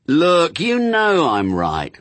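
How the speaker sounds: high, insistent bickering; arguing. Acted. Demon and angel bicker over harps, insistent.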